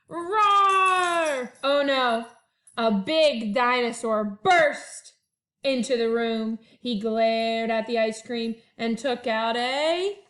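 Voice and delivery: lively picture-book read-aloud; reading to children. A narrator's reading. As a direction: read it to first graders with bounce. Teacher reads picture book aloud.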